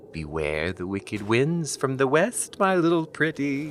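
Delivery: slow, teasing spooky recital rising high at the end; mock witch voice. Boyfriend mocking her grandmother's warning, hammed-up witch voice. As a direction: ham up the old warning like a storybook witch. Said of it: "how does it go again".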